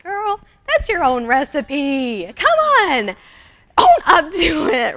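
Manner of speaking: high, loud, drawn-out protest; mock exasperated call-out. Calling out a blogger plugging her own recipe, mock exasperated. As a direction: call them out in playful outrage.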